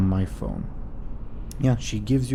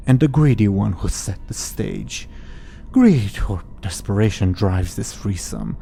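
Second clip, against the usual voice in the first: ominous prophecy. Acted. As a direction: intone it like a seer's verse. Hag recites rhyming prophecy.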